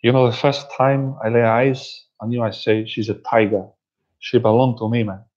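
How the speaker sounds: lightly mimicked Cuban gangster accent; Scarface. Gangster recalling first sight of a woman, mimicked Cuban accent. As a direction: imitate the Cuban gangster's pickup patter. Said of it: "pickup skills in the film Scarface".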